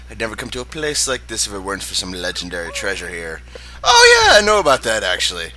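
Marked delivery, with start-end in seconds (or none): 3.8-5.5 big high shout of a thug butting in; a thug's high, loud bark of interest; loud thug cry. Acted. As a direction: yell it out like a greedy thug. Thug overhears about treasure.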